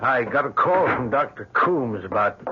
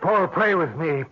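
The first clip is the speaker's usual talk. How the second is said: terrified; 13 semitones higher than usual. Acted. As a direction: beg in rising panic. Terrified minister begs to pray.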